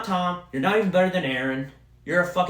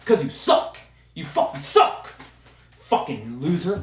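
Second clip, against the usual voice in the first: mocking; 3 semitones higher than usual. Real, not acted. Insulting the player.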